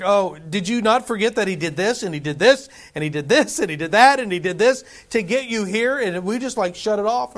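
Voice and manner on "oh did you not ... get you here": exasperated reminder. Retold or imitated. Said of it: "It's like".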